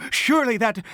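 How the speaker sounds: giggling through the words; laughing. Acted. Father laughing at himself.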